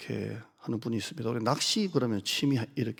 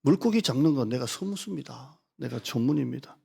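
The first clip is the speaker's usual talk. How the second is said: Peter boasting; 2 semitones higher, 3 dB louder than usual. Acted. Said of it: "베드로 입장에서는 이렇게 말할 수가".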